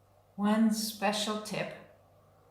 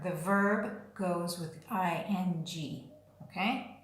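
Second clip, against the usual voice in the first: confiding hint; 7 dB quieter than usual. Shown as a demonstration.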